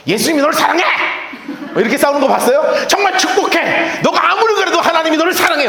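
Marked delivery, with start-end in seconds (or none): 0.1-0.8 high-pitched sham fight, loving words; hammed-up angry blessing; mock quarrel. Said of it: "예수의 향기로 싸우는 사람". 2.9-5.7 hammed-up, high-pitched angry blessing; mock quarrel. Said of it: "뭐 이렇게 싸우는 사람 봤냐고요?".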